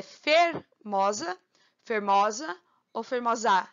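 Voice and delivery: fermosa with mó stretched and leaned on; stressed syllable shown. Shown as a demonstration. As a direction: lean on the mó in fermosa. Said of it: "Forçando assim".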